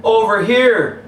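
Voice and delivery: high, loud, slow call across the court; shout. Acted. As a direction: yell for the ball. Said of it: "shouted Larry".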